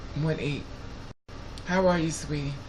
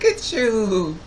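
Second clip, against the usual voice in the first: louder, higher cooing at a grown man; gushing baby talk; 6 semitones higher, 5 dB louder, slower than usual. Retold or imitated. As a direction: fawn over him like over a baby. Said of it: "I have a bad habit when I see young, young people".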